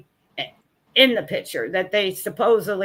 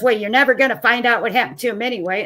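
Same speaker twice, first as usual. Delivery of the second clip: retold irritated snap; faster than usual. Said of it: "she kinda stomps off".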